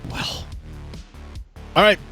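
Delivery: ordinary talk, nothing marked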